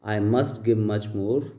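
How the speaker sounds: slow, deliberate read-aloud of the paragraph; slow dictation reading. Shown as a demonstration. Teacher reading the paragraph aloud to students, slow and deliberate. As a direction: read each word out slowly for the class. Reads slowly.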